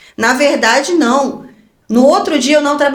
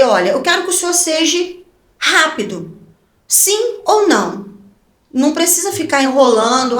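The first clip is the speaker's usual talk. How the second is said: exija resposta em tom mais agudo; cheia de autoridade; 5 semitones higher than usual. Retold or imitated. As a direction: ordem encenada, palavras finais bem marcadas. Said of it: "da autoridade". (autoritária e exigente)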